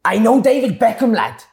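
mock boastful footballer bragging about famous friends; impression of the guest. Guest bragging to the host in the dressing room, lightly mimicked. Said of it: "his impression".

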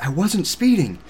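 high-pitched mock protest of a wife; retold defensive wife; imitated indignant protest. Wife protests being pulled over.

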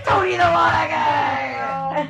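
long, high, drawn-out shout; hollered catchphrase. Pretend. DM hollering the joke character's name, mock announcing.

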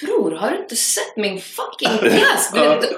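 slow, disbelieving put-down; incredulous retort. Retold or imitated. Thinking back at the clueless student, slow and incredulous. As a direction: let each word land like she can't believe it.

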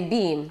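"been" with a long ee; BEEN said as "bean". Shown as a demonstration. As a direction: say "been" to rhyme with "seen". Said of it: "we should all say".

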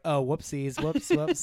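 squeaky high mock apology; high silly sing-song whoops; sheepish whoopsies. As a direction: play it cute and guilty. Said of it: "And I was like".

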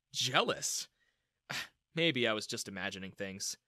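usual speaking voice

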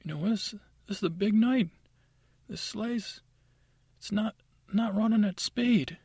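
furious Santa. Acted. Santa scolds his chief of staff over the stalled sleigh, furious. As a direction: roar it at the elf on the big night. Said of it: "And he's like".

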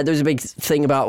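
normal talking voice

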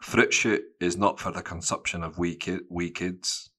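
lightly voiced Scottish mum. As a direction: forbid it in a Scottish accent. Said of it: "No, they don't say little".

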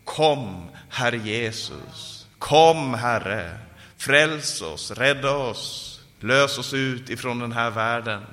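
fervent plea, punched first word falling away; imploring prayer cry; Maranatha cry. Acted. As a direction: call on the Lord, then draw the name out slowly. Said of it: "det föder också det här Maranata-ropet i oss".

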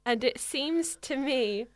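slow, drawn-out reading, trailing into a whisper; hushed, slow reading of the confession; slow confessional reading. Acted. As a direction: confess it slowly, dropping to a whisper at the end. S1 reads the letter's confession.

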